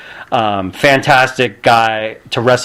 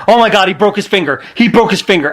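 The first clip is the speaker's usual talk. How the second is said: panicked; 5 semitones higher, faster than usual. Retold or imitated. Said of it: "Daniel Bryan was freaking out".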